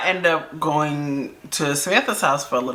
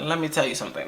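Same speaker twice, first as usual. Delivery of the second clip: restrained warning; 7 dB quieter, faster than usual. Retold or imitated. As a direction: say it under your volume, holding back. Retelling her telling-off of a caller.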